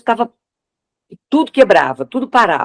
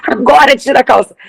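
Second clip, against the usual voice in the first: insistent; 6 semitones higher than usual. Retold or imitated. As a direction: tell him firmly now. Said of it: "a gente dizia assim".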